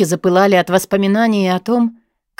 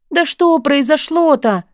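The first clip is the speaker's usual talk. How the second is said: slow, high begging plea; pleading; 7 semitones higher, slower than usual. A narrator's reading. Zhanka begging Raya to tell her, slow pleading. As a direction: drag it out, imploring her friend. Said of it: "взмолилась подруга".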